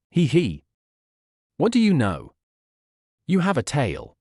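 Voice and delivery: chuckling. A narrator's reading. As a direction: chuckle at the baby's tail. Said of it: "The old martial artist chuckled".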